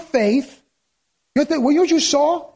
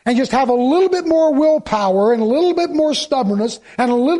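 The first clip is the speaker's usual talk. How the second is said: sarcastic. Acted. Preacher mocking self-reliance, sarcastic tone. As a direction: fake encouragement with a sarcastic edge. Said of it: "yes, I'm being sarcastic and for effect".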